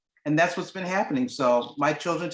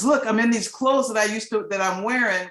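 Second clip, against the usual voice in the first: excited showing off; 5 semitones higher, 3 dB louder than usual. Retold or imitated. Daughter showing off her clothes.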